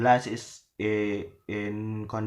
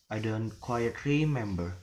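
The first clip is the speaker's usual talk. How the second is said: bend the pitch through "remember"; hesitant fall-rise. Shown as a demonstration. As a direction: stretch "remember" as if unsure. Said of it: "syllable is falling".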